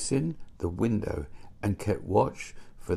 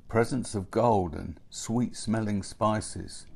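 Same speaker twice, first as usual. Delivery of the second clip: ordinary delivery, nothing marked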